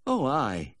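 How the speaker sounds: high, fretful "aye"; anguished agreement. A narrator's reading. Fretting owner admitting it to the vet, anguished. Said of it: "he said, wringing his hands".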